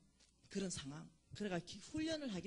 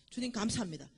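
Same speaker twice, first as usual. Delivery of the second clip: firm declared thanks; 7 dB louder than usual. Shown as a demonstration. Repeating the thanks phrase.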